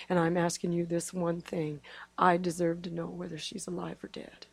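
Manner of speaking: soft, whispered plea to God; hushed prayer. Retold or imitated. Mother praying alone in the car for her daughter, hushed plea. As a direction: pray it low and close, nearly unvoiced.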